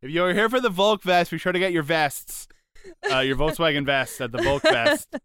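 a hint of event staff calling out directions; festival announcer. Organizer sending Volk Fest crowd to kiosk, mock announcing.

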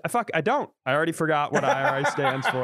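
laughing panic. Retold or imitated. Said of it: "and then I realized".

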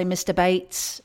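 "Mister Bates" in Downton Abbey English; Downton Abbey accent. Shown as a demonstration. Showing off for the co-host, Downton Abbey accent. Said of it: "I can do my Downton Abbey".

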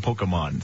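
"Pokemon" said as POH-kuh-mon; corrected pronunciation. Shown as a demonstration. Host repeating the correction, "Pokemon" as POH-kuh-mon. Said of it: "is it Pokemon or is it Pokemon".

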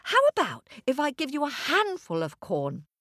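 lightly voiced small boy; boy bargaining. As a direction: offer it like a hopeful child.

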